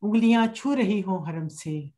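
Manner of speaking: unhurried, measured verse with pauses; poetry recitation. Acted. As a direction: lay each line out gently for the audience. Recites her hamd at a mushaira.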